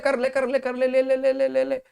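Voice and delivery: high, loud sing-song urging; the law tempting. Acted. The law voiced as a tempter urging him to do it. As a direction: egg him on in a teasing chant. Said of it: "law बोलता है".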